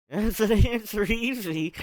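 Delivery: rereads "That's an answer easy?" in a confused, rising voice; stopping to question the garbled words; puzzled reread. Real, not acted. Reader baffled by own slip, puzzled reread. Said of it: "I just read that backwards".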